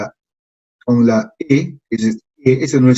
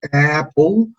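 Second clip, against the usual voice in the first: apple said with a long, full first vowel; stressed apple. Shown as a demonstration. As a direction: lean on the start of apple. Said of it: "como por ejemplo".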